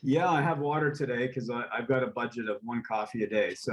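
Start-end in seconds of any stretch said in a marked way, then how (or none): 1.7-3.5 amused, half-laughing confession; laughing while talking. Real, not acted. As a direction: laugh at your own coffee rule. Admits coffee budget, laughs.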